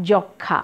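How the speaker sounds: যক্ষা as jok-khã, final vowel nasal; nasalised, silent m. Shown as a demonstration. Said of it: "মফলার উচ্চারণ নেই কিন্তু নাসিক্য হয়েছে".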